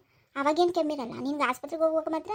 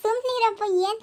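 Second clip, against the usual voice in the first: exasperated hush; 6 semitones higher, 6 dB louder, slower than usual. Acted. Granddaughter hushes teasing grandfather.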